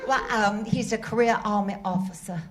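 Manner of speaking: put-on Southern accent. Contestant flirts back at the quizmaster in Southern accent. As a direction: play the Southern belle lightly. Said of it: "With that accent".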